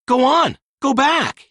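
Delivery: high, loud furious dismissal; angry. A narrator's reading. Peter furious at Wendy, sending her home angrily. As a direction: fling the words at her. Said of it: "This infuriated Peter Pan".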